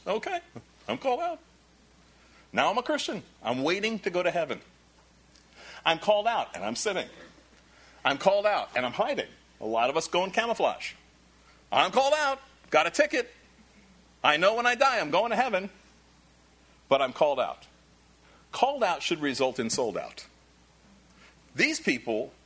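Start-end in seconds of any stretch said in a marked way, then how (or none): 0.1-9.3 mock smug believer, higher pitch; lightly mock a self-satisfied pew-sitter; complacent Christian. Complacent Christian voiced mockingly. 11.7-17.7 mock smug believer, much higher and louder; hammed-up self-assured ticket holder.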